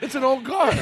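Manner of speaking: high nasal car-buff voice; gushing car collector voice; Jay Leno impression. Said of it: "Jay's like".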